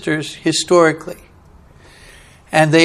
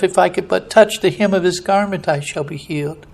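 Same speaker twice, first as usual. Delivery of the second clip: hushed, dropping to a near-breath at the end; said to herself; 7 dB quieter than usual. Acted. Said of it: "she said to herself".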